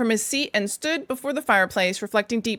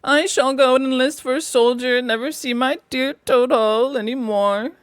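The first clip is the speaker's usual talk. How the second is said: mildly tearful; 3 semitones higher than usual. Acted. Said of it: "crying into the sofa cushions".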